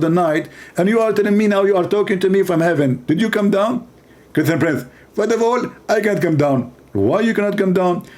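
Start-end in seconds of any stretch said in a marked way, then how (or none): 4.3-6.7 a light parody of a preacher's lecturing voice; half-hearted preacher impression; mock Zakir Naik. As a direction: play a pompous debater, lightly. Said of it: "He speak like this".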